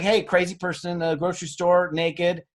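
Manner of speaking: lightly voiced bystander phoning the cops; a hint of a startled shopper tipping off the police; pretend caller to the police. Caller reporting naked shopper to cops.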